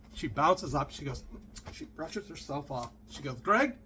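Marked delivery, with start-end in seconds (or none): 3.4-3.7 high, rising imitated accent; Doctor Ruth. Passenger getting the driver's attention, high mock accent. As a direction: call out in a mock accent, pitched up. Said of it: "I'm doing a horrible accent here".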